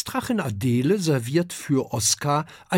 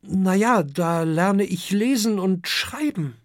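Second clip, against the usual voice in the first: put-on high child-dragon voice; young dragon Oskar; 8 semitones higher, 3 dB louder than usual. A narrator's reading. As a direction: justify yourself in a high kid voice. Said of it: "antwortet Oskar". (hohe Drachenkinderstimme)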